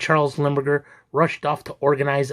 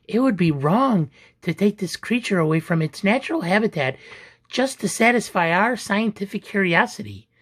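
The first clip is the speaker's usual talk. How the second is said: lightly voiced objection, pitched higher; a touch of earnest protest, higher; protesting heroine; 6 semitones higher than usual. A narrator's reading. Rosie objecting to taking the creature away, mild protest.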